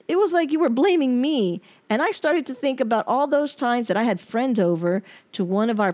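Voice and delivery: hurt, accusing letter read aloud; pained reading of a breakup letter; reading a bitter letter. Acted. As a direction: read it like you're still furious at him. Reads her unsent angry letter.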